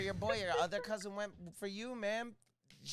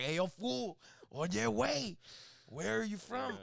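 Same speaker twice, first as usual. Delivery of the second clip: mock cholo; 4 semitones higher, slower than usual. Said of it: "you end up like a cholo".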